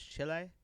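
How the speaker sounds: "Chile" said as CHEE-lay, Spanish style. Real, not acted. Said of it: "Stop saying it like that".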